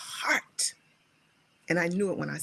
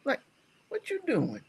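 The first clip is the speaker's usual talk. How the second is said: puzzled question; 3 dB quieter than usual. Retold or imitated. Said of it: "I said".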